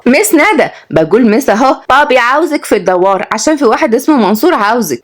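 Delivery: put-on high, insistent child messenger; lightly voiced little girl delivering news; Rawhiya, village child. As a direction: pipe up with a message.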